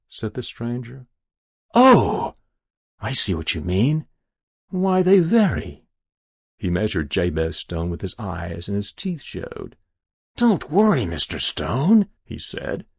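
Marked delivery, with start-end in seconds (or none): 1.7-5.8 lightly voiced genial stranger, pitch swooping high; breezy stranger. Stranger explaining the sizes of souls, breezy. 10.3-12.1 lightly voiced oily reassurance, starting high and loud; reassuring stranger. Stranger reassuring frightened Jabez, smooth.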